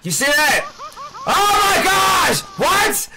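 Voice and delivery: slow, drawn-out "oh my God"; real shocked exclamation; stunned disbelief. Real, not acted. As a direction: gasp it out in disbelief. Shocked at the game.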